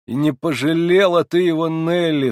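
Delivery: high, loud reproach; exclaiming. A narrator's reading. Narrator reproaching the girl for hurting the old man, loud cry. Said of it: "вскричал я".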